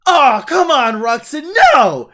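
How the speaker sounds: high, exasperated yell; Kevin. Retold or imitated. Man acting Kevin after an unwanted kiss, exasperated shouting. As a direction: shout it in loud, outraged protest. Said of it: "And Kevin's just like".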